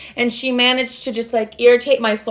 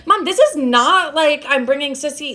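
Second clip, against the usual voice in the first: exasperated protest; 5 semitones higher than usual. Retold or imitated. Retold argument with her mom.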